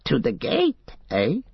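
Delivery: high, startled creature squeak; Gollum squeaking. Acted. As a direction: squeak it out, surprised and frightened. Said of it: "Gollum squeaked".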